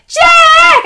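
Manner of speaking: very high, loud, drawn-out yell; calling out. Retold or imitated. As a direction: call down from the top of the stairs. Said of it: "calling out from the top of the stairs".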